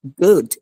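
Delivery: গুড with a slightly long oo; lengthened vowel. Shown as a demonstration. Teacher correcting learner's word, lengthened vowel. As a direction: draw out the vowel in গুড a little. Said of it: "একটু লম্বা হবে".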